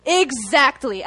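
sudden high cry of yes, then a slow exactly; reliving the moment of agreement, bursting out; excited yes. Retold or imitated. Youth preacher recalling his reaction to the altar call, excited cry. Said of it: "I was like".

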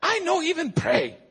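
loud, high imitated Chinese accent; rally him in a put-on Chinese accent; brisk dismissal, mock Chinese accent; Chinese-accented pastor. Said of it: "I look at the Chinese pastor".

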